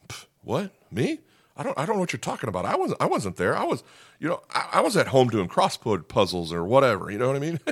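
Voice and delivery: high-pitched, stammering mock innocence; hammed-up defensive babble, jumping high; flustered denial. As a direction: play dumb in a squeaky, hurried protest. Acting Peter's flustered denial.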